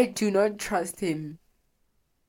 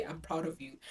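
grandma's tender pride; 11 dB quieter than usual. Retold or imitated. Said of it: "look me in the eye and say".

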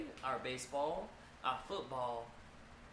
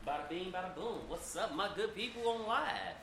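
hyped greeting; 4 semitones higher than usual. Real, not acted. Hyped greeting to live viewers.

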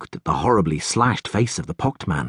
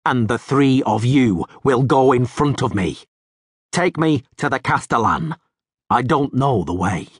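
resounding voice; 3 semitones higher than usual. Acted. Rivian directs the guards to the Castellan, resounding. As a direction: order them calmly, ringing. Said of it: "resounding metallic voice".

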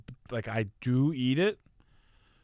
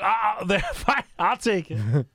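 high, loud, overly polite host voice; eager host; 8 semitones higher, 5 dB louder, slower than usual. Retold or imitated. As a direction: play the host grabbing the plate back, pitched way up. Hosts voiced, eager to swap.

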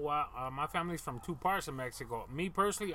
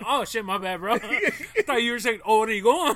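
sheepish apology; 6 semitones higher, 10 dB louder than usual. Retold or imitated. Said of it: "I'm like".

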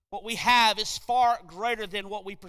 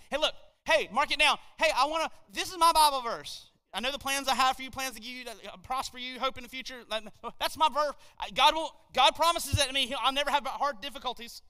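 eager verse-claimer; 2 semitones higher than usual. Acted. Mimics believer claiming wrong verse.

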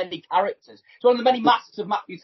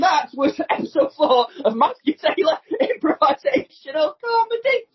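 higher-pitched show sign-off; mock announcer; 7 semitones higher than usual. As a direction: close the sketch with a hammed-up announcer flourish.

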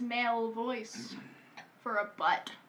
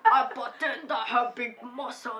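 Arnold Schwarzenegger. Acted. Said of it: "I cannot do this accent".

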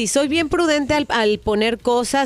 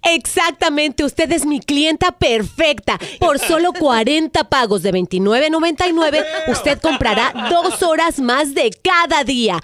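infomercial. Acted. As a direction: sell it like a TV ad. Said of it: "es una broma telefónica".

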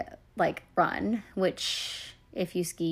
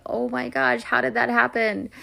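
retold disbelief; 5 semitones higher, 3 dB louder than usual. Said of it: "just sort of in disbelief".

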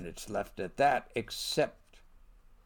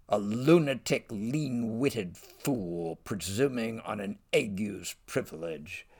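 mock angry outburst. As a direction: spit out the insult as the furious king. Richard flies off the handle.

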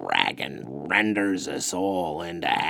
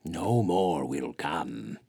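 sad. Acted. Curly Bigfoot telling Luke no one will come, sadly. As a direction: let the hopelessness weigh each word. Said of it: "Egelith answered sadly".

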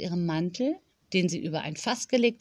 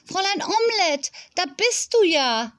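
calling out; 10 semitones higher than usual. A narrator's reading. Tilda finds her missing hen, calling out high. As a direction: exclaim in a raised, high pitch. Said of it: "rief Tilda aus".

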